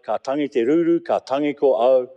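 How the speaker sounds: keen the words like a grieving howl; a touch of a mourning wail; keening lament. Retold or imitated. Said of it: "How I howled".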